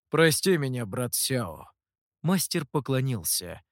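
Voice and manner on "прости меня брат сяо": мягко. Acted. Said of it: "тон Гуэя звучал мягко".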